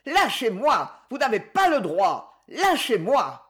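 put-on a cornered boy stumbling on his words; stammering. A narrator's reading. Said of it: "Il bégaya". (bégaiement plus aigu d'un garçon acculé)

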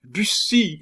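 high, loud desperate call; piercing woman's cry; cried out. A narrator's reading. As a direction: cry his name in alarm. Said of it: "cria Diane".

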